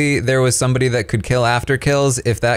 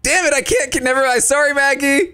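flustered; 11 semitones higher than usual. Real, not acted. Flustered during chase.

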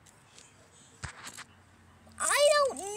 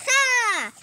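loud gotcha yell; triumphant shout; 6 semitones higher, 11 dB louder than usual. Real, not acted. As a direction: bark it out in triumph. Catches him out, triumphant.

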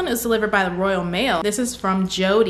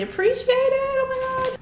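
very high, squeaky thanks; squeaky gratitude. Real, not acted. YouTuber overcome with thanks to a fan, high squeak. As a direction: let the voice jump up in delight.

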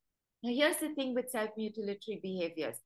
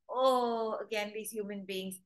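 annoyed sigh. Retold or imitated. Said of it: "she makes this face like this".

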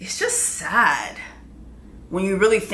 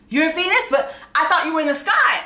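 high, laughing, wide-eyed wonder; a lightly voiced awestruck king; childlike wonder; 7 semitones higher, faster than usual. King amazed his wife is Venus, high and laughing. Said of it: "And he's like".

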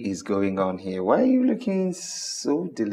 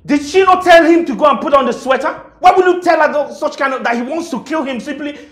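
raised, heated scolding; angry argument; 4 semitones higher, 3 dB louder, faster than usual. Acted. Husband scolding his wife over the daughter, heated. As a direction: scold her, pitch up and loud.

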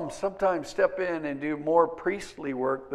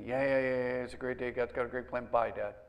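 put-on bored kids; 4 semitones lower, 5 dB quieter than usual. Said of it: "they'd get sick of me".

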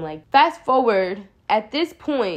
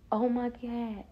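shocked gasp; 3 semitones higher, 7 dB quieter, slower than usual. Retold or imitated.

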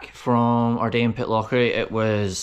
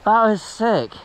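frat bro; 10 semitones higher, slower than usual. Real, not acted. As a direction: hype it like a stoked bro. Finishing the best trail.

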